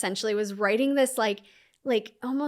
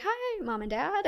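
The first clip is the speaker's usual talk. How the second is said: much higher, falsely bright greeting; fake cheerful; 9 semitones higher than usual. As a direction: hide the tears with a chirpy hello. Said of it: "act normal".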